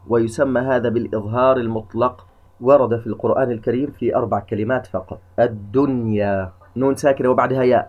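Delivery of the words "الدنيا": الدنيا said slowly with the nun clearly sounded; clear unmerged nun. Shown as a demonstration. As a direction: sound a distinct N before the ya in الدنيا. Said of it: "نظهرها ولا نقول الدنيا". (إظهار النون بوضوح في الدنيا)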